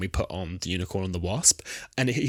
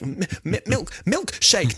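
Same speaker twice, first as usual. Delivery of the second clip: high, halting guesses; guessing at charades; 10 semitones higher, slower than usual. Retold or imitated. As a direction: stammer out a charades guess, drawn out. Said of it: "she starts shaking. She's like".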